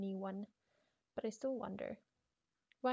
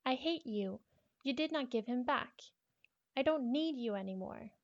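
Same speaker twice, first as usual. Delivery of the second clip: loud, a bit higher, cold rejection; angry girl; 3 semitones higher, 5 dB louder than usual. Acted. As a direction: tell him off, loud and bitter. Diary girl rejects someone.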